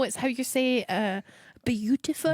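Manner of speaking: halting mock French-accented English; Joey Barton's mock French accent. Teasing co-host's pronunciation, mock French accent. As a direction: put on a hesitant French-style accent. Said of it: "like Joey Barton when he was doing press conferences".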